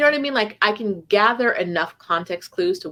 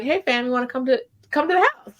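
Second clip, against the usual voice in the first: quick, rising friendly invite, going higher at the end; welcoming local voice; 5 semitones higher than usual. Retold or imitated. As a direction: play an eager local inviting you home. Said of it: "they're like".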